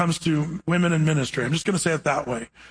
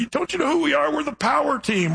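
proud strongman boast; 9 semitones higher than usual. Retold or imitated. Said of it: "And he said".

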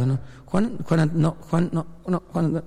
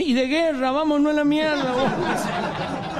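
acted alarm; 9 semitones higher, slower than usual. Drunk hit by handbag, flees.

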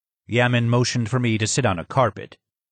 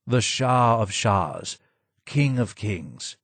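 more sad than angry; slower than usual. Acted. Disgraced advisor names his old king, slowly and sadly. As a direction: let the title fall away slowly with sorrow. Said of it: "more sad than angry".

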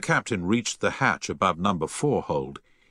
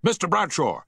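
much higher, raised shout; shouted call; 10 semitones higher than usual. A narrator's reading. Captain calls to Bradshaw through the flames, shouting. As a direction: shout across the burning deck. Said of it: "shouted the captain".

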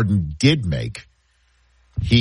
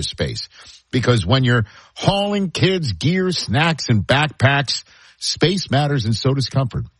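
upbeat live ad read. Acted. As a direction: sell it like a radio spot. Host reads live car ad.

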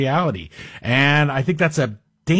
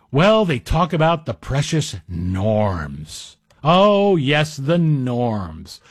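sarcastic; much slower than usual. Real, not acted. Sarcastic mock reverence for norms.

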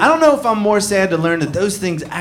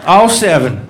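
much higher and louder hammed-up hick boasting; proud bucket collector; 11 semitones higher, 5 dB louder, slower than usual. Collector showing buckets to a guest, loud mock hick pride. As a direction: show off the collection to the visitor, hammed up.

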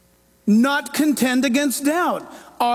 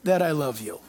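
tender declaration; 3 semitones lower than usual. Retold or imitated. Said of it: "comes home and says".

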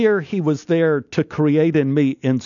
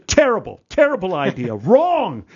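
blunt dismissal; 5 semitones higher than usual. Retold or imitated. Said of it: "He goes".

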